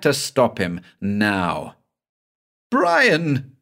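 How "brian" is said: high shriek of the name. A narrator's reading. Banks shrieks at the ghost, high and horrified. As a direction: cry the name out in horror. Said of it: "he shrieked".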